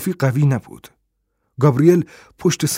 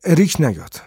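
protesting, pitched higher; a touch of girlish protest, higher; 4 semitones higher, 3 dB louder than usual. Acted. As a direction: object firmly to him coming along. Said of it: "با اعتراض گفت".

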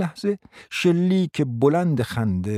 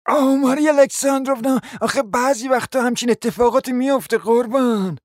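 lightly voiced, sweetly condescending; mild false sympathy; a hint of a smug guest; 12 semitones higher than usual. Guest soothing the hostess with mock concern.

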